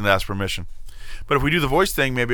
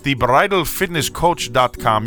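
careful repeat; 2 semitones higher, slower than usual. Shown as a demonstration. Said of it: "I'll say it again because".

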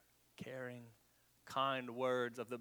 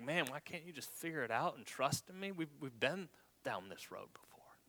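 mild mock exasperation. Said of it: "mocking those of us".

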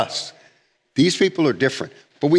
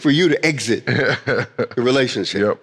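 laughing. Real, not acted. Laughing at the excuse.

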